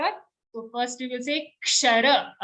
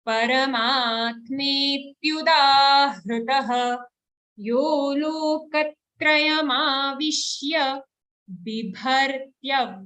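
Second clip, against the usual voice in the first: slow chanted Sanskrit verse, line by line; measured shloka chant; verse recitation; 2 semitones higher, 3 dB louder, much slower than usual. Shown as a demonstration. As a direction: lead the class through the shloka.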